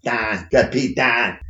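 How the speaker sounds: put-on Pittsburgh accent, "down" flattened to "dahn"; thick Pittsburgh accent on "down"; Pittsburgh Dad. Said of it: "you've done Pittsburgh Dad well".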